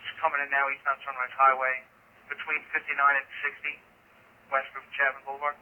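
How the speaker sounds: ambulance radio. Real, not acted. Unit calling dispatch over radio.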